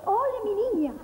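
bright fake-sweet hello; laughing greeting. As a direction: switch to a sugary laugh.

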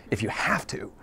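conspiratorial whisper; a whispered aside. Real, not acted. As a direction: whisper it like a secret. Aside about breaking rules.

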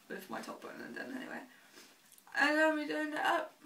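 talking while chewing gum. Real, not acted. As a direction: speak around a piece of gum. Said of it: "So if I keep smacking my gum".

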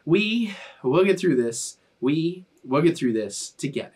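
slow, measured mantra for all to join; group mantra. Real, not acted. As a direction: lead the group in a mantra, leaving pauses. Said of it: "let's say it together".

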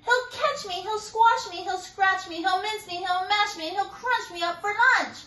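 high, breathless terrified squeak; squeaky panic. A narrator's reading. Mouse begging chipmunk for help. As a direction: squeak it out in a rush. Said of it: "she squeaked".

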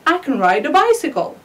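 can reduced to kən, linked to I; flowing native rhythm on the can; natural weak can. Shown as a demonstration. Teacher models the correct native sentence for students. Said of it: "you want to pronounce very well".

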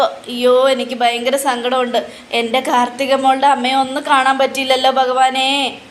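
lightly acted wailing lament; mild theatrical weepy complaint; mock crying. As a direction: moan to God in put-on grief. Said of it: "മൂങ്ങ ഇങ്ങനെ ഒന്ന് കരഞ്ഞോണ്ടിരിക്കുക".

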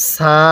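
সা with a thin, plain s, vowel held; thin sin. Shown as a demonstration. Teacher shows how to pronounce sin, thin s. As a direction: say সা long with a light s. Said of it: "সিনটা চিকন করে উচ্চারণ করব".

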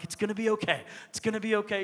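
soft retold reassurance; reassuring. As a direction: gently talk a crying child down. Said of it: "trying to convince him".

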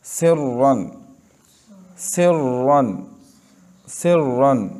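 सिर्रन repeated with a full, heavy doubled R. Shown as a demonstration. Teacher drills सिर्रन for students, heavy R. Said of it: "रा को पुर पढ़ना है".

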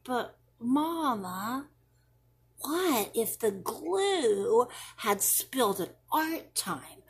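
put-on a child spinning what-ifs for mom; worried child.

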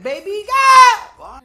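catcall leaping high and loud; playful holler. Pretend. Player flirting with the tense woman, playful holler. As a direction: swoop up into a loud call.

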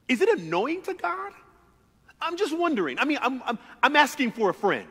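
playful aside. Real, not acted. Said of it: "playful rhetorical aside".

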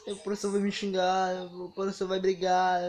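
light imitation of tearful whining; retold whimpering worry; mock crying. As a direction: fret like a kid starting to cry. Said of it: "comecei a chorar".

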